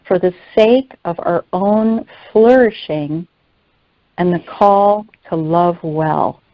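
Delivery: measured read-aloud with long pauses between phrases; deliberate, lightly emphatic teaching read. Real, not acted. Reads a prepared teaching aloud.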